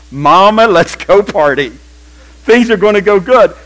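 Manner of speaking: loud, joyful "mama, let's go party", slowing on "gonna go good"; preacher whooping at the idea of riches; excited whoop. Real, not acted. Preacher to congregation, loud jubilant party call.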